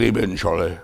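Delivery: low, soft, solemn response; a quiet, low pastor's amen at a bedside; hushed amen. Acted. Pastor to dying Charlie, hushed and low.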